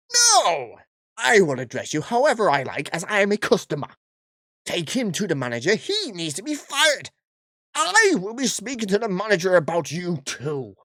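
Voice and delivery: hammed-up furious customer; mock yell. Karen yelling at staff to fire him, mock shouting. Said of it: "I can't keep this voice up".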